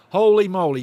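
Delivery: goal-reaction gasp of joy; thrilled exclamation. Real, not acted. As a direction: blurt it out, stunned by the goal. Goal just scored.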